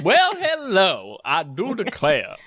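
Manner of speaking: slow, high Southern belle drawl. Acted. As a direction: let it ooze out like molasses. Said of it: "like molasses spilling out of your mouth".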